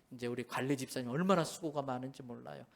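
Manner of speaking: ordinary talk, nothing marked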